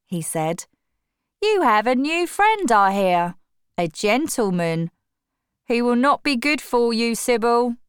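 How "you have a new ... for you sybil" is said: higher, louder, fast warning; a protective brother cautioning; stern brother. A narrator's reading. Brother warns sister.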